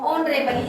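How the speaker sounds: ऑनरेबल with no h sound; teacher's model of ऑनरेबल, h unspoken; silent H. Shown as a demonstration. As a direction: begin ऑनरेबल straight on the o. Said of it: "इस एच को तो हम silent".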